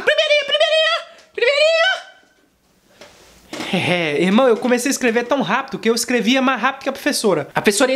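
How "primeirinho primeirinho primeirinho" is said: put-on high, quick kid voice, shouting first; eager schoolboy squeal, pitched high; high-pitched eager kid yelling first; squeaky kid calling out. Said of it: "A professora acabava".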